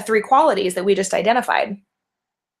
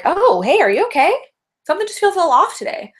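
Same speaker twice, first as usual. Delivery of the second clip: high-pitched, caring check-in on someone; lightly acted, higher-voiced "are you okay?" concern; 9 semitones higher than usual. Noticing someone's energy is off, gently acted concern.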